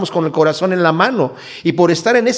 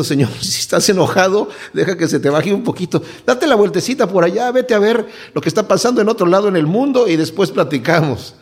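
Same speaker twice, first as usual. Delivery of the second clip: laughing paraphrase; 3 semitones higher than usual. Retold or imitated.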